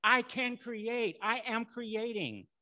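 slow, high, emphatic proclamation; declaring like Moses. Acted. Preacher models taking authority to create, a slow Moses-like proclamation. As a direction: proclaim each statement slowly and powerfully. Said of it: "stand up there like Moses and say".

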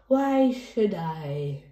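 very slow, teasing refusal; mock haughty reply. Reader voicing the other parent in the kids' play, slow teasing refusal. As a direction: play hard to get.

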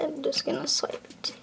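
breathy whispered aside to himself. Acted. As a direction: murmur it under your breath while working the till. Cashier muttering aside.

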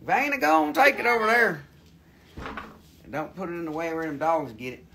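a country bumpkin voice, lightly put on; hammed-up hillbilly drawl. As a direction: play a rowdy rural hick hosting the show. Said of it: "talk funny".

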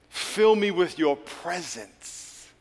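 slow, hushed plea for presence. Acted. Pastor leading the congregation in prayer, slow and hushed.

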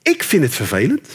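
calm therapist phrasing; mock reasonable calm; I-message. Shown as a demonstration. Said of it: "je moet zeggen".

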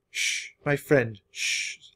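slow, soft soothing hush; calm a frightened horse gently. Acted. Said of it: "Alexander said softly".

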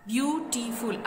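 ब्यूटीफुल in three beats, ब्यू, टी, फुल; syllable by syllable. Shown as a demonstration. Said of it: "इसको pronounce करते वक्त देखें". (ब्यूटीफुल को तीन हिस्सों में तोड़कर)

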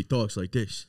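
low, slow mock Brooklyn talk; Brooklyn accent. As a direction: lightly imitate a thick Brooklyn accent. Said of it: "He's got that fucking".

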